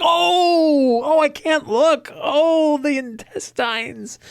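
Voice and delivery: a high little rabbit that can't bear to look but loves it; cartoon bunny gasping at the blood; squeaky horrified rabbit. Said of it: "calling out".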